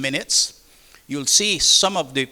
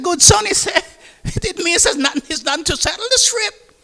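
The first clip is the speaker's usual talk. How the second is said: amused captain. Retold or imitated. Captain voiced mocking the sailor.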